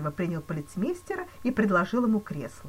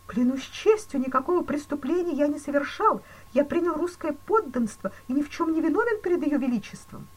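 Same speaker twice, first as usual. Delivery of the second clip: higher, louder anxious banker voice; frightened banker; 8 semitones higher, 6 dB louder than usual. A narrator's reading. Banker pleading with the police chief, panicky.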